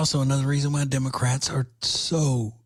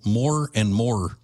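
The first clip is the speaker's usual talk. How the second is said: "more and more" drawn out slowly, Cajun-style; slow Cajun accent on "more and more"; much slower than usual. Retold or imitated. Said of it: "as the Cajuns would say".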